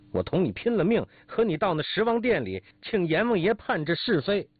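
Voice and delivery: high-pitched quarrelsome tirade; outraged squawking, pitch kept high; yelling in anger. Acted. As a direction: rail as if ready to fight to the death. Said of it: "口里嚷说".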